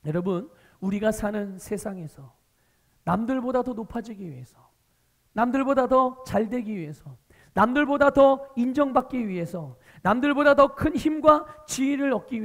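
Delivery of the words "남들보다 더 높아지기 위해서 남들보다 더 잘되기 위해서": ordinary delivery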